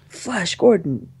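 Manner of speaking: slow mock robot announcement, rising high; little robot. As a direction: imitate a little robot declaring victory. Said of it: "it's the little robot thing that's like".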